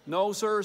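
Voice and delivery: NO, SIR lifted as if asking; tentative NO, SIR, left open; like a question. A narrator's reading. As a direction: answer NO, SIR with an uncertain questioning tune. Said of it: "He said it like a question".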